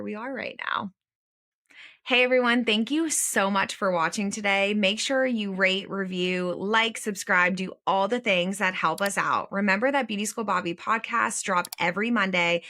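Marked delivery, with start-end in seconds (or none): 2.0-12.6 brighter, lifted sign-off to listeners; podcast host wrapping up an episode for listeners, upbeat sign-off; upbeat outro read. Acted. Host thanks viewers and asks them to subscribe, upbeat.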